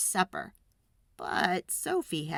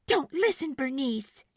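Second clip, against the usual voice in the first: louder and much higher, alarmed; cry out; 6 semitones higher, 4 dB louder than usual. A narrator's reading. Girl crying out to her squash, loud and high. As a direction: shield the squash from the words. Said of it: "Sophie cried".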